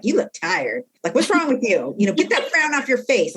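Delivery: blunt remark. Retold or imitated. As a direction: imitate an inmate bluntly scolding a friend. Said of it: "people don't say stuff like".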